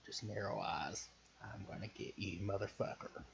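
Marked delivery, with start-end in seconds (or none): 1.4-3.2 a hint of a soft menacing threat. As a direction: softly vow revenge to the rich man. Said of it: "giving them a menacing glance".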